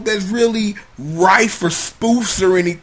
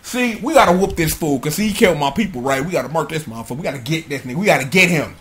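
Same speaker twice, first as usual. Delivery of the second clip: hushed scheming; 5 semitones lower, 6 dB quieter, faster than usual. Retold or imitated.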